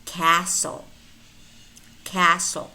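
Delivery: castle with no T, just an S before the L; silent T. Shown as a demonstration. Teacher models silent letters for learners, silent T in castle. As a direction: say castle as "cassle". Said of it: "but it's not pronounced. It's silent".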